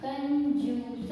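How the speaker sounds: कंजूस said slowly, each sound joined in turn; slow syllable blend. Shown as a demonstration. Teacher blending कंजूस for the children, slow. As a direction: build कंजूस slowly from its letters. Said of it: "तो क्या होगा शब्द?".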